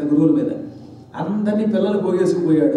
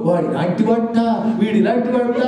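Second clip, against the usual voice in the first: lightly mimicked phone gossip; a hint of someone voicing idle gossip freely; imitated gossiper; 2 semitones higher than usual. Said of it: "కబుర్లు చెప్పుకునేటప్పుడేమో గొంతుకు వచ్చేస్తుంది". (కబుర్లు చెప్పేవాళ్ళ అనుకరణ)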